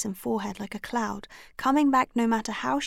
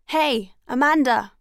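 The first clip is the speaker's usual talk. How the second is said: calling out; 3 semitones higher, 7 dB louder, slower than usual. A narrator's reading. Waving and calling a friend.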